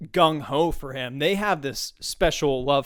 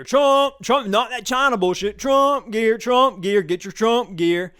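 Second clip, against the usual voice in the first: loud, higher street vendor calling out; vendor hawking; 6 semitones higher, 5 dB louder, slower than usual. Retold or imitated. Vendor calling to the rally crowd, loud hawking. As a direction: bark it out like a hawker selling gear.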